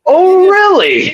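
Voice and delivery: high, slow, mock innocent; squeaky fake surprise; mock surprised victim. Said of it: "It would be like".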